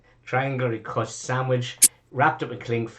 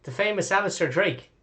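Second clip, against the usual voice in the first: starstruck fan; 3 semitones higher than usual. Acted. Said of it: "he goes".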